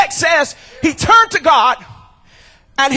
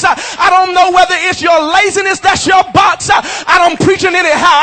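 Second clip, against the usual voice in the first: shouted preaching, pounding every line; preaching at full force. Acted. Pastor preaching to his church, full-force shouted preaching. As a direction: hammer it home like a revival preacher. Preacher drives home the box.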